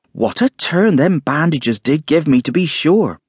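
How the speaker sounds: high, rattled landlady; flustered landlady. A narrator's reading. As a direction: talk herself out of a fright. Mrs Hall shaken, chattering.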